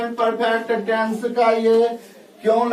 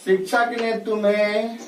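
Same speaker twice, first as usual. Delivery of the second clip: slow dictation; slower than usual. Shown as a demonstration. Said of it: "teacher slowly dictates example sentence".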